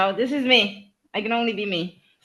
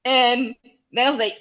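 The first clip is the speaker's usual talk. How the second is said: usual speaking voice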